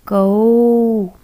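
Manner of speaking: loud, drawn-out कौ for the class; model syllable कौ. Shown as a demonstration. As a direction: say कौ clearly so the children repeat. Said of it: "आप भी बोलिए मेरे साथ". (ज़ोर से साफ़ "कौ" बोलकर दिखाना)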